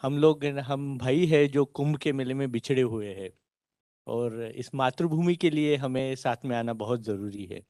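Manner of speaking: fast, filmy dramatic Hindi dialogue; Bollywood hero. Acted. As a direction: deliver it like a movie hero's big line. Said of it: "I'll say a filmy dialogue".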